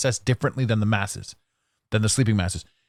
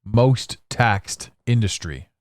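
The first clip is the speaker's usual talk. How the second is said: slow quiz-host tease. Acted. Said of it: "I'll let some dead air sit".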